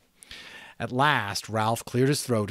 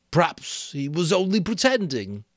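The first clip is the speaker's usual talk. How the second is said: lightly voiced boy, a bit higher; Piggy's voice; 9 semitones higher, 5 dB louder than usual. Piggy answering Ralph, a lightly voiced boy.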